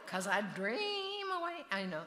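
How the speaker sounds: high, loud laugh through the words; giggling at her own joke. Real, not acted. Mother laughing at her own dreamer joke.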